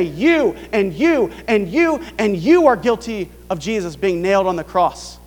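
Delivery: Peter accusing the crowd; pointing accusation. Retold or imitated. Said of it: "he would say".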